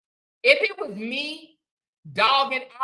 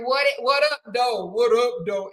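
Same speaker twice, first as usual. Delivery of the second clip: a light, lightly voiced Bree greeting, a little louder; her Bree voice; 4 dB louder than usual. Reading a viewer's greeting in her Bree voice, lightly done. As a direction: toss out the greeting in her own Bree persona. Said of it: "In my Bree voice".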